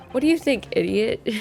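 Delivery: McGilded. Acted. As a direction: toss out the insult in a slight invented accent. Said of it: "I don't know what accent he has now".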